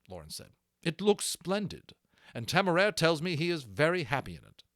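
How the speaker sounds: a lightly voiced naval captain, brisk and pleased; hearty captain. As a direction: praise the men like an officer. Lawrence commending the harness makers.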